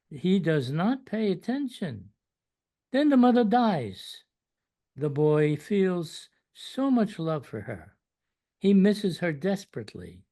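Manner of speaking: measured recital with pauses between lines; poem reading. Acted. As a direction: read a devotional poem aloud, phrase by phrase, with rising and falling emphasis. Reads own poem aloud to listeners.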